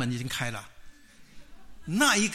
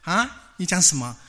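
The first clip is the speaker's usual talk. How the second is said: loud, startled query without sobbing; acted startled double-take; tearful surprise; 3 semitones higher, 6 dB louder, slower than usual. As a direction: jolt out of crying into disbelief. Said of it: "他把眼睛展开来，突然泪水给他讲说".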